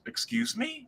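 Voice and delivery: high, mock-offended woman asking; high voice of an affronted lady; shocked woman. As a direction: play the stunned professor caught off guard. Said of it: "then the woman goes".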